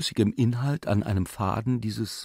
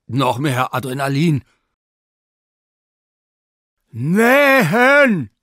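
louder and higher, driving on; agitated shout; 5 semitones higher, 9 dB louder, slower than usual. Acted. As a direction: push through the crisis loudly. Surgeon barking final orders.

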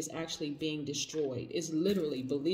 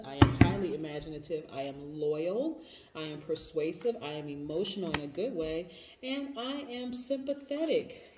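affirmations. Shown as a demonstration. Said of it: "I want you to say".

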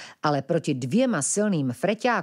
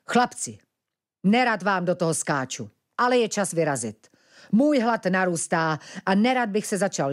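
lightly voiced bear, brisk and firm; a hint of a big bear giving orders; 2 semitones higher than usual. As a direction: hurry the boys along firmly. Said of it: "rázným hlasem pronesl".

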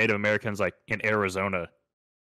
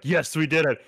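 higher, hearty settlers' cheer; mock celebration; 5 semitones higher, 3 dB louder than usual. Settlers high-fiving off the boat, mock celebration. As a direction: celebrate landfall like a triumphant settler.

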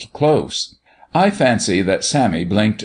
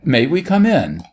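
higher, politely engaging request; most engagingly; 6 semitones higher than usual. A narrator's reading. Doctor asking the skipper to let them in, most engagingly. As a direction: ask to come in, winningly. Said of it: "and then most engagingly".

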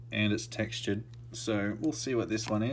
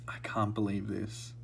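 softer, hushed disbelief; murmured to himself in awe; real quiet wonder; awed murmur; 2 semitones lower, 6 dB quieter than usual. Real, not acted. Quiet awe after the pull.

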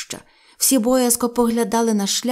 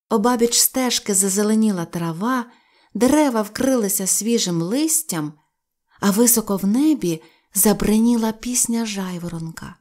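ordinary delivery

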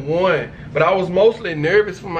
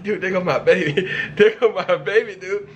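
laughing through the words. Retold or imitated. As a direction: giggle while saying it. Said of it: "I'm like".

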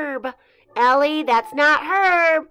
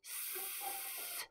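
silent s; 30 dB quieter than usual. Shown as a demonstration. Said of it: "silent letter".

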